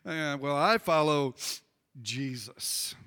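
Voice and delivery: lightly voiced pious holdout, low and drawn out; smug follower. Preacher mimics believer making it about own spiritualness, lightly smug.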